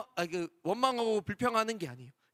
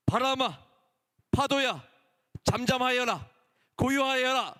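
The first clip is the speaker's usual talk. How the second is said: louder commanding rebuke to the storm; rebuking command; 4 semitones higher, 3 dB louder than usual. Acted. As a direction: order the wind and waves to be still. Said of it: "꾸짖으시면서 말씀하셨어요". (바람과 파도를 꾸짖는 예수님의 큰 목소리)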